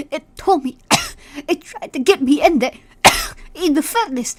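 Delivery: put-on sick old grandma. Dying grandma's confession between coughs.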